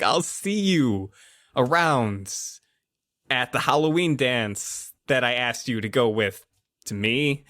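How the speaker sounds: lightly acted embarrassed exit line; awkward, retreating Greg. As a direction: trail it out in hesitant pieces.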